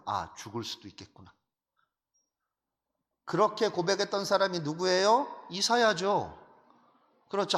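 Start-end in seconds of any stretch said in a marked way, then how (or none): 0.1-1.3 low, soft voice of dawning dread; awed realization. Acted. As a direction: let it sink in quietly, understated fear. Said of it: "두려워 떠는 거예요". (나직하게 두려움을 깨닫듯)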